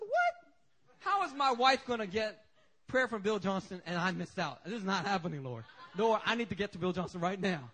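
a hammed-up startled cry, then pleading fast; retelling his own alarm to the congregation; mock frantic outburst. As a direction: play your own panic for laughs. Retold panic at missing out.

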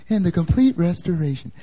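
hammed-up audiobook narrator; mock audiobook voice. Shown as a demonstration. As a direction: parody the narrator voice, savouring it. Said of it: "it sounds like an audiobook".

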